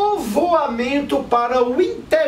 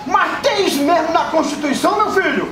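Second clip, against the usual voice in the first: surprised politician; 3 semitones higher than usual. Acted. Skit, candidate surprised.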